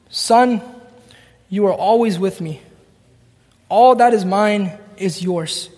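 slow, gentle fatherly reassurance; a father calming his older son, slow and tender. Acted.

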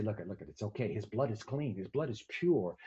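low, soft soothing voice; calm a scared parent; reassuring. Retold or imitated. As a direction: nurses to a frightened father, low and soft. Nurses calming the father.

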